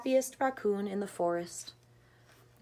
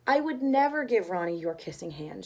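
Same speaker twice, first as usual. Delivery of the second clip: gently assuring; 2 semitones lower than usual. Acted. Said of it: "she assured him gently".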